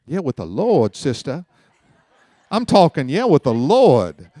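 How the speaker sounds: "with the Lord" stretched in a Louisiana lilt; Louisiana accent. Shown as a demonstration. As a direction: lean into a Southern preacher twang. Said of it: "let me say it in Louisiana".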